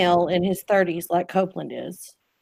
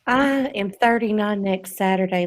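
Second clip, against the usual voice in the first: Southern belle. Pretend. Host performing her best Southern voice for friends, Southern belle. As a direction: ham up a Southern belle accent. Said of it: "do it in my best Southern voice".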